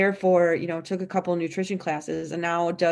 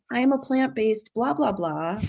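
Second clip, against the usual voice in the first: higher-pitched mimicry of a self-labeled expert; mock practitioner; 5 semitones higher than usual. Imitating practitioners who push one diet, mock pitch-raised recital. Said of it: "we see them saying".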